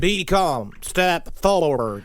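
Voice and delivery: slow, calm commanding alien; a touch of eerie calm, step dragged out. Acted. The alien voice calming Ed. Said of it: "The voice started speaking English and said".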